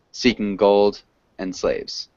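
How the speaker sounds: slow, each syllable marked; counting syllables. Shown as a demonstration. Teacher counting syllables for students, slow and even. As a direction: tick off the five syllables slowly. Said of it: "five syllables".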